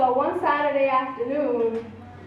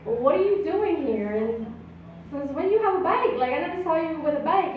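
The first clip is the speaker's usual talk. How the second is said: higher, incredulous questions; retold surprise, raised pitch; surprised; 6 semitones higher than usual. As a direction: ask it up high, amazed he has a bike. Surprised at neighbor on bike.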